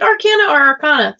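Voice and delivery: arcana said first with short a, then with broad ah; two pronunciations. Shown as a demonstration. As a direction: asks how to say arcana, trying both. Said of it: "How do we pronounce that?".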